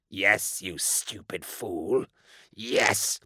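sneering, slow insistence; demon child sneering. A narrator's reading. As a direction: hiss him into obedience.

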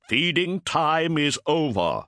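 high, loud, slow warrior promise; fierce vow. Acted. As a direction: swear it as a threat. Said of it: "he promised".

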